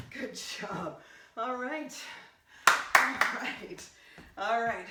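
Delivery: loud celebratory shout; excited cheer. Real, not acted. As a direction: whoop it out after finishing. Cheering after finishing workout.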